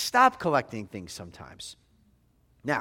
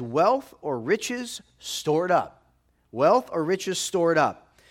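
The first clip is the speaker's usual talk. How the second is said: Wealth or riches stored up said slowly and pressed; slow emphatic repeat; 3 dB louder, slower than usual. Shown as a demonstration. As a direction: lean on wealth, slow and deliberate. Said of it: "Emphasis on the word treasures".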